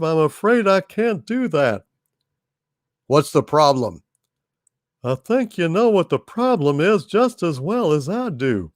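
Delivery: lightly voiced Texan salesman; Texan propane salesman Hal.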